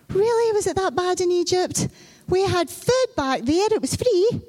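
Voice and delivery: a hint of nostalgic moaning; whining complaint. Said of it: "it's like".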